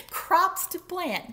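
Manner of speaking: high, loud drawn-out holler; yelling duck. A narrator's reading. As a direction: keep calling it out high. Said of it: "yelled Duck".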